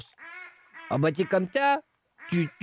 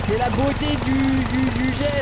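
mock enthusiasm; 7 semitones higher, 4 dB louder than usual. Mock nature-lover enthusiasm.

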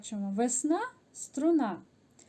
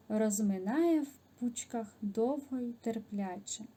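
measured, expressive poem recital; poem reading. Shown as a demonstration. Teacher reading a spring poem aloud to pupils, expressive recital. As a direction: read the spring poem to the class with feeling.

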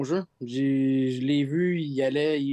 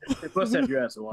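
muffled tube-filtered voice; through a tube. Real, not acted. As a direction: sound like speaking through a tube. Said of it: "Mets-moi la voix de tube". (voix dans un tube)

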